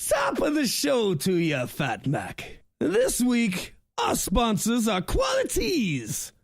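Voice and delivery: a shouted, sing-song mock Irish announcer; hammed-up Irish accent. Co-host hams a bad Irish accent reading the sponsors. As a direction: lay on a bad Irish brogue for the sponsor read. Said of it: "I'm gonna stop with the accent now".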